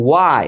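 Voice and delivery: "why" as wai, no h; correct pronunciation. Shown as a demonstration. Teacher modelling question words, careful pronunciation. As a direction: open "why" on a clean w. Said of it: "এটা উচ্চারণ কি?".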